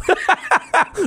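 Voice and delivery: a real laugh that jumps up high; high burst of laughter. Real, not acted. Host laughing at his boss calling him a kid. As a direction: crack up at the joke.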